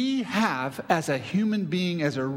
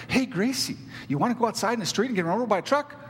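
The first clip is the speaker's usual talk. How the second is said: cheery tone; 2 semitones higher, faster than usual. Shown as a demonstration. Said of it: "Case in point, I can go".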